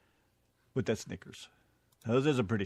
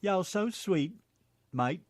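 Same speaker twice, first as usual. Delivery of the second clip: higher-pitched mock British Tennessee accent; 6 semitones higher, much slower than usual. Co-host answering with his own British Tennessee accent. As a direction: Tennessee phrase with a British twist. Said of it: "Do a British Tennessee accent".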